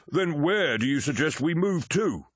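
captain pressing the stranger, sharply voiced; challenging warrior captain. A narrator's reading. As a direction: push him for an answer.

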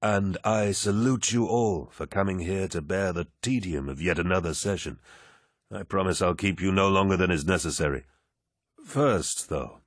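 commanding warrior lord. Acted. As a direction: speak like a genial, mighty lord. Narrator voices Horus.

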